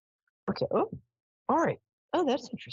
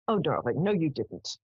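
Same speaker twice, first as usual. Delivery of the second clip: mother's manner. Retold or imitated. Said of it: "which is how she talked".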